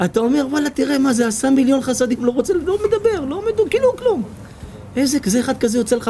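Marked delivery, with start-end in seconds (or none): 0.5-4.2 high, marveling exclamations; a guest marveling at a modest man, amazed; amazed admiration. Acted. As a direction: marvel at him, pitch rising.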